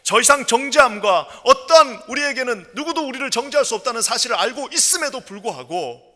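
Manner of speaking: forceful sermon voice; impassioned preaching. Real, not acted. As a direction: preach it with rising urgency.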